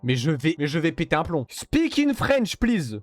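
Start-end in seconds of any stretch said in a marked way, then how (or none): 1.5-3.0 slow, higher, over-articulated English; slow mock English. Real, not acted.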